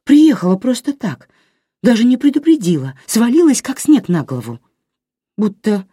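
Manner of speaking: tearful. A narrator's reading. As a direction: voice rising toward tears. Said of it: "всхлипнула". (высоко, сквозь подступающие слёзы)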